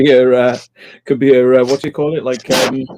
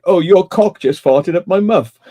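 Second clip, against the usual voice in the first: quoting a comedy character; 4 semitones higher, 4 dB louder than usual. Retold or imitated. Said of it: "and he's like".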